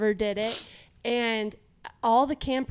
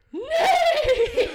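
calling out; 7 dB louder than usual. Retold or imitated. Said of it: "he goes".

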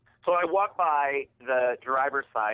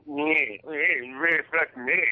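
smug mockery; 3 dB louder, much slower than usual. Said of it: "As smug and prickish".

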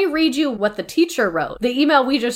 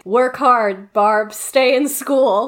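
slow quote; 4 dB louder, much slower than usual. Retold or imitated. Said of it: "the quote that's like".

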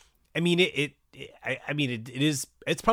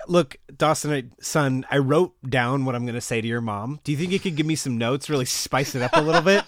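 louder, eager request; mock earnest dad; 2 semitones higher, 5 dB louder than usual. Mitch asking son Dawson for notes, eager. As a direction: ask sheepishly for help.

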